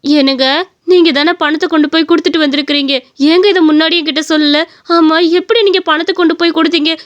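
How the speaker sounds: mildly amazed questioning; astonished. Acted. Wife asks how her stingy husband paid, mildly astonished. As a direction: question with a touch of wonder. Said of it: "எனக்கு ரொம்ப ஆச்சரியமா இருக்கு".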